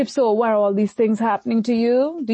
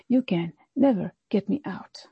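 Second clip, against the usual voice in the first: whispered taunt; 3 dB quieter than usual. Acted. Enemy voiced in a sermon.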